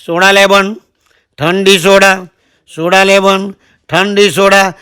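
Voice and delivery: sing-song vendor calling out cold soda; lightly voiced platform soda seller; soda hawker's call. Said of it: "ઉનાળાનો દાડો બૂમ પાડે".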